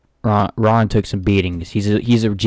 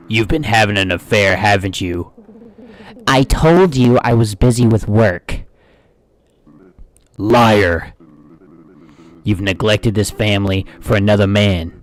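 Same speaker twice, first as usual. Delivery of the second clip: accusing spouse; 3 dB louder than usual. Acted. Acting an angry spouse.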